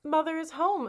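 high, sweet put-on mother voice; a tiger faking a sweet high mother. A narrator's reading. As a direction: sound like a loving mother to fool them. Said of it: "a sweet voice said".

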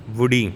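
ਵੁੜੀ alone, v and short u; correct V sound. Shown as a demonstration. Teacher repeats for learners, ਵੁੜੀ with v and short u. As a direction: model ਵੁੜੀ starting on v. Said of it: "ਵਾਵੇ ਔਂਕੜ".

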